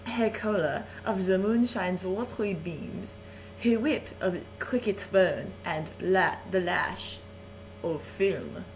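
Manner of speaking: put-on theatrical reading in a French accent; French host reading Shakespeare aloud, hammed-up=; story reading. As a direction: savour the verse like a bedtime story. Continues the speech.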